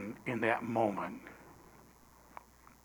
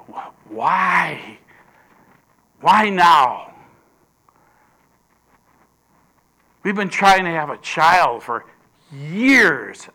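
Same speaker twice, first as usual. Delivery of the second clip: louder, a desperate why now; pleading cry; 3 semitones higher, 6 dB louder, slower than usual. Acted. Zacharias crying out to God about the child, loud and pleading. Voicing Zacharias's anguished questions.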